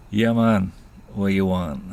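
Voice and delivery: put-on Jamaican accent, punched opening; bad Jamaican accent. Rasta outside the pub to two boys, mock Jamaican accent. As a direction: imitate a dealer in a rough Jamaican accent. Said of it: "worst Jamaican accent you're ever gonna hear".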